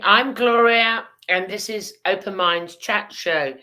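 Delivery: talking around a lozenge; mouth full. Real, not acted. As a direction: speak while sucking a lozenge, mouth full. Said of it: "I'm chewing a lozenge".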